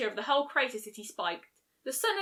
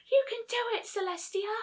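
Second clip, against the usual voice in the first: cheering; 11 semitones higher than usual. A narrator's reading. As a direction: yell encouragement across the fire. Cheering Celestia on loudly.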